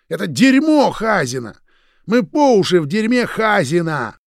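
high, loud shout. A narrator's reading. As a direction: bellow it. Roman shouts.

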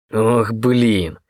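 ordinary delivery

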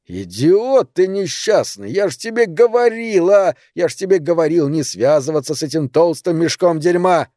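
put-on old friend berating him down the line; exasperated scolding. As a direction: tear into him, I told you so.

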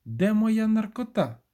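high, drawn-out imitated wail; mock wail. A narrator's reading. Narrator imagines his wife bursting out, mild mock wail. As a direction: imitate her wailing, high and stretched out. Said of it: "вискочить звідти з лементом".

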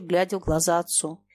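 plain reading voice

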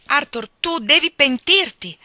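loud, slow, pleading outburst; desperate cry. A narrator's reading. Wife bursting out at her husband, loud and desperate. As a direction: burst out, begging him to repent. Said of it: "gridai in un'esplosione disperata".

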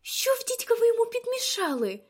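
high, loud, outraged cry; shouting after someone. A narrator's reading. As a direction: yell it after someone walking away. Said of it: "крикнула Люсі навздогін".

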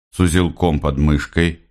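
usual speaking voice

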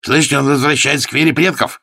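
high, loud exclaiming; triumphant cry. A narrator's reading. Pastor calling the room to witness, exclaiming. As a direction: crow over the win. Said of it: "воскликнул пастор".

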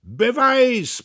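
loud, high demand; loud, high shout; bellowing. A narrator's reading. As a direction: roar for proof. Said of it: "brüllte er".

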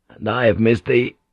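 understated male lover's answer; tender reply in the narrator's own register; loving man. Acted.

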